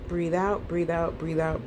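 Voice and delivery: "breathe out" repeated softly, dropping from the held pitch; easing exhale cue. Shown as a demonstration. Leading listeners through a long exhale, soft easing cue. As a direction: let each "breathe out" sink softly.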